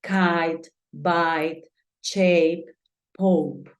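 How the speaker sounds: kite, bite, shape, pope with gliding long vowels; English teacher demo of kite, bite, shape, pope. Shown as a demonstration. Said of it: "el sonido va a ser un sonido cambiante".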